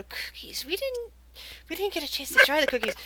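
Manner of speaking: hushed, fast, high elf chatter; whispering elves. Acted. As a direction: squabble in a quick whisper. Elves poking each other, voiced.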